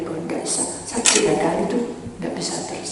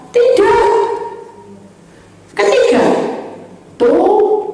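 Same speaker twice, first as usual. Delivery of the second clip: shouted sermon points; 13 semitones higher, 9 dB louder, slower than usual. Real, not acted. Shouted points of prayer list.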